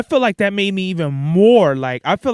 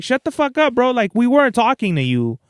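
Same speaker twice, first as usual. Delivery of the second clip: fed-up retort; 6 semitones higher than usual. Retold or imitated. Snapping at an intruding stranger.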